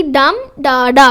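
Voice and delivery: डम stressed, डा डा unstressed; slow beat, weight on the first डम; dactyl stress. Shown as a demonstration. Teacher repeating the dactyl technique, stress on the first डम. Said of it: "पहला stress, बाकी दो unstressed".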